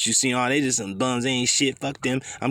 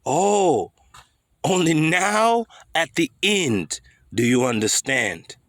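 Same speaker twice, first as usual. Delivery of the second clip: slow, higher, drawn-out menacing emperor voice; higher and slow, relishing the villain's line; Darth Sidious impression; 4 semitones higher, slower than usual. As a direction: savor each word like a gloating old tyrant. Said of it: "He says".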